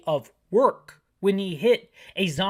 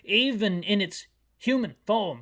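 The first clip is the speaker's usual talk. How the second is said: chief voice; 3 semitones higher, 4 dB louder than usual. Acted. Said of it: "That's a terrible voice for the chief".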